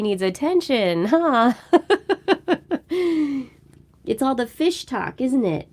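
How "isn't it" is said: plain reading voice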